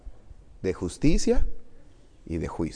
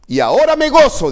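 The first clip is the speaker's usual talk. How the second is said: mock joyful exclaim; 13 semitones higher, 11 dB louder, faster than usual. Pablo citado, exclamado.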